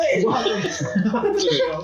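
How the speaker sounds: slow, high, silky mock host welcome; smooth buttery voice. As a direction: stretch it out like a syrupy radio host. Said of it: "Like a really smooth, buttery voice".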